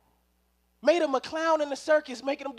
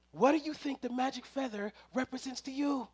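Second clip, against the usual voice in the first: ordinary talk, nothing marked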